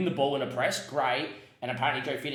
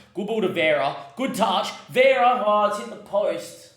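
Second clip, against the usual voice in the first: rising to a loud, high shout as the chance builds; building excitement that bursts at the post; excited commentary; 8 semitones higher, 7 dB louder than usual. Real, not acted. Manager watching his striker's shot hit the post, shouting excitedly.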